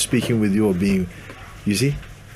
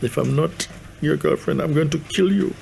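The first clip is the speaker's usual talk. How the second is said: pleading that climbs into a high, mock threat; needy girlfriend; 4 semitones higher than usual. Mimicking someone who needs to be your girlfriend, needy. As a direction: play a clingy girlfriend, pitch rising steadily. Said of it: "who seem to need".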